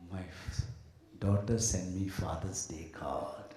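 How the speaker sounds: low, slow boastful father voice; a father slowly showing off his card to friends; lightly voiced boasting dad; mock proud father.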